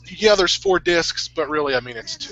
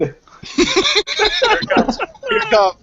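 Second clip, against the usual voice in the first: excited anticipation; much slower than usual. Real, not acted. Anticipating scene, sing-song.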